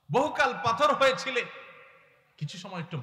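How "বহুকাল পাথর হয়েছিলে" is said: higher and louder impassioned line; a preacher's impassioned plea; fiery preaching. Acted. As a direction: call it out to the whole gathering. Preaching climax.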